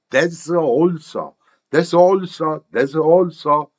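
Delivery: "that's also" run together as one unit; linked sounds. Shown as a demonstration. Teacher shows how it sounds to learners, "that's also" linked. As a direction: join "that's" straight onto "also". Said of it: "이렇게 들립니다".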